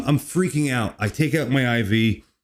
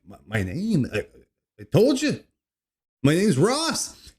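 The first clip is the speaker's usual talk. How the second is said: retold confusion; 4 semitones higher than usual. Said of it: "I'm like".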